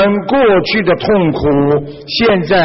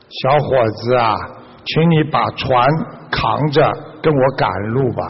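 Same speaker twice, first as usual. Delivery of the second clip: lower, slightly softened request; kindly master; 4 semitones lower, 3 dB quieter than usual. Acted. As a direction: calmly ask it of the young man, voice lowered. Master calmly instructs young man. (平和低声地吩咐小伙子)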